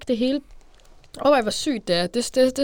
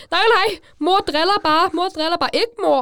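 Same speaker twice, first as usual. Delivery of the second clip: a whining younger sister begging; mock sister protesting to mom; imitating little sister; 10 semitones higher, 5 dB louder than usual. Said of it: "Og min søster var sådan".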